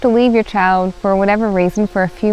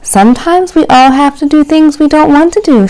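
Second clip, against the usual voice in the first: gentle mother; 6 semitones higher, 6 dB louder than usual. Acted. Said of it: "she told him gently".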